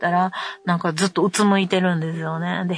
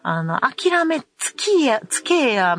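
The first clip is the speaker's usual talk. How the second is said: fed-up scolding; 3 semitones higher than usual. Retold or imitated. Mother telling her indecisive son to give up, fed up. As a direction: lay it on him, fed up.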